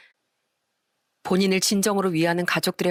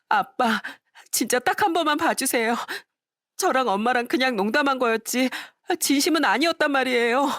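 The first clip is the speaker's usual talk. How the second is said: put-on higher, begging young woman's voice; pleading daughter; 7 semitones higher than usual. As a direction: plead with father for forgiveness. Daughter begs again.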